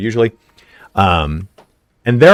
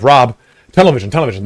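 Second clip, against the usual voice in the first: mock panic; 2 semitones higher, 4 dB louder, faster than usual. Panicking while high.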